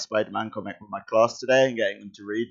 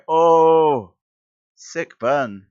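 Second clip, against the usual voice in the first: delighted exclamation; 6 semitones higher, 8 dB louder, much slower than usual. Real, not acted. Reacting to comic insult.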